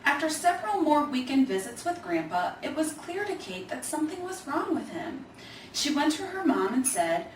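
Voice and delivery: put-on gentle, lively read-aloud for children; storybook narration. A narrator's reading. Reader telling children a story about grandpa, in a gentle storybook voice. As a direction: tell it like a bedtime picture book. Reads picture book aloud.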